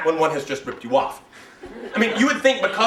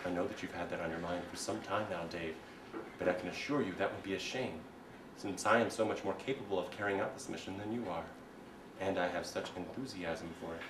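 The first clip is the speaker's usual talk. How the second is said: HAL computer voice; 11 semitones lower, 15 dB quieter than usual. Acted. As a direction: speak like a cold ship computer.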